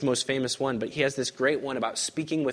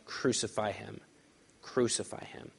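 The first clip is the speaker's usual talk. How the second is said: hushed crowd cry; 5 dB quieter than usual. Acted. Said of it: "they cried out".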